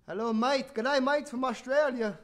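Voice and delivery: mock Australian accent. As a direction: hail a mate in playful Australian. Greets viewer in mock Australian.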